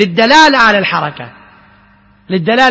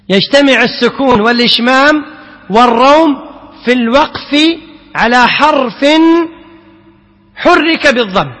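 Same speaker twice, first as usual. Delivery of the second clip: repeated dictation. Shown as a demonstration. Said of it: "مرة ثانية؟".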